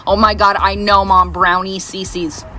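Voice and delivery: imitating a fed-up daughter, dragging out the end; low-pitched mock weariness at mom's old story; eye-rolling exasperation. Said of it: "she'll roll her eyes at me".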